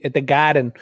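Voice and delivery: "Garden" with the Boston dropped R; Boston-accented "Garden". Shown as a demonstration. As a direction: drop the R, Boston style: "Gahden" for "Garden". Lapses into discussed Boston accent.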